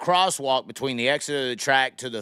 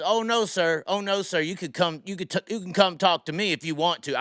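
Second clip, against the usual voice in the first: retold screaming; 6 semitones higher than usual. Heckler refusing to walk over to the cop, mild mock yell. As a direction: talk back like a heckler, mildly imitated. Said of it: "they're screaming this".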